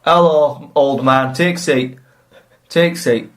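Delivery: a hint of a gruff Yorkshire swineherd; Yorkshire accent. Swineherd greets the old beggar in a light Yorkshire accent. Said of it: "he's a Yorkshireman".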